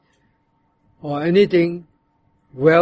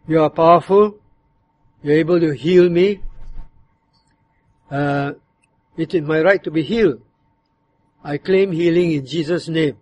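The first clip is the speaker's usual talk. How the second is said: demanding. Shown as a demonstration. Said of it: "it can be said in another tone. It can be, uh, very demanding".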